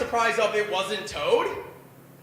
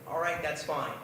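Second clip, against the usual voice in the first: meek giving in; 8 semitones lower, 8 dB quieter than usual. Retold or imitated. Caving meekly to agent.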